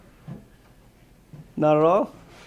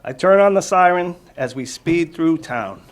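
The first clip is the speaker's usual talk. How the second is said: clear, lively storybook read-aloud, louder; reading to children; 2 semitones higher, 6 dB louder than usual. Acted. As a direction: read it out to the kids with energy.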